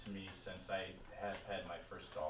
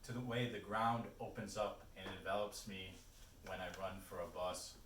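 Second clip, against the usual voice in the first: measured reading with pauses between phrases; poetry reading. Acted. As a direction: recite the poem line by line, letting each phrase land. Reads a poem aloud.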